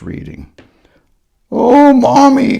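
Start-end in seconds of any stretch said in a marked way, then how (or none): 1.5-2.6 high, drawn-out happy cry; slow, higher delighted child; happily. Acted. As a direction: gush it with delight. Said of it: "Grover said happily".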